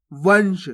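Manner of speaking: वंश said as one syllable with a nasal hum; सही उच्चारण. Shown as a demonstration. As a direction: draw out वंश, the nasal running straight into श. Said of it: "आपको वनश नहीं पढ़ना". (वंश, नाक से खींचकर, एक साथ)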